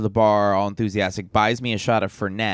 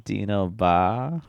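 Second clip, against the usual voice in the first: put-on Australian accent; 2 semitones lower, 4 dB quieter than usual. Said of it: "That, that last part was not bad".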